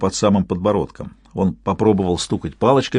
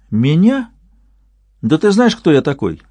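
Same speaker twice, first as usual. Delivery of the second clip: lightly voiced braggart declaiming, higher; mock declaiming; 7 semitones higher, 3 dB louder than usual. A narrator's reading. Boastful young man declaiming his title to Slavik, higher. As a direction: proclaim your grand title like a boastful conductor. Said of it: "продекламировал он".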